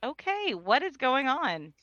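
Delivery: anxious, getting spooked; nervous and rattled. Acted. Panicked daughter on phone with father.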